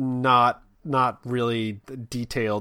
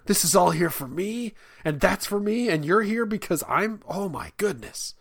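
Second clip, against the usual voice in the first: put-on bratty kid; 6 semitones higher, 4 dB louder than usual. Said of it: "They're just like".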